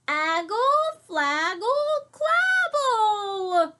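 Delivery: high, loud crying babble; toddler yelling. Acted. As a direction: wail it like a frantic toddler. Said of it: "said Trixie again".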